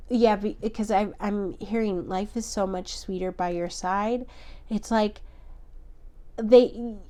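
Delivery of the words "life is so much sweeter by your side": softer, inward repeat of the message; softer channelled echo. Real, not acted. Reader echoing a channelled message, softer and inward. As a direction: hear it and echo it quietly.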